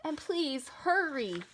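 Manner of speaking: high, drawn-out urgent plea; urgent yell. A narrator's reading. Boy urging the firemen to hurry, urgent yell. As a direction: urge them on, stretching the words. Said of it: "I yelled".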